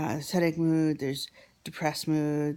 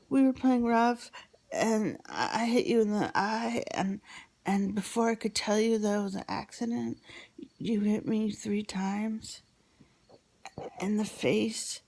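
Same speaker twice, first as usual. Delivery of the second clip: put-on higher, earnest little-kid voice; a hint of an upset child, raised in pitch; lightly voiced child; 6 semitones higher than usual. Child telling Daddy what he did, lightly imitated high voice.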